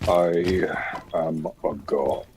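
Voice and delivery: slow whispered godlike boast; megalomaniac rant. Pretend. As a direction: whisper it like a smug villain. Gloating after a kill.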